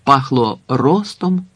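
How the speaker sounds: usual speaking voice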